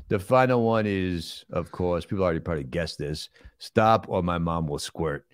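deliberate movie tough guy explaining himself; plodding, self-satisfied star impression; Sylvester Stallone.

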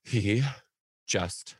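lightly voiced, composed little tattletale; measured, matter-of-fact mini professional; calm, businesslike boy. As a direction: imitate a kid reporting calmly, slowing at the end. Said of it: "calm and collected. And he'll be so businesslike".

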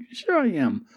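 put-on high, light Australian accent for Boomerang; lightly done Australian accent; Aussie voice. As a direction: play the cocky Australian rogue. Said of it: "And Boomerang's like".

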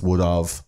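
would of with a distinct "of"; would of, mistaken. Shown as a demonstration. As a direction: stress the wrong "of" after would. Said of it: "people think it's".

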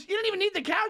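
high, mock indignant doorman; gruff overprotective dad. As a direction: imitate Larry Miller's accusing line. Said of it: "he goes, he goes".

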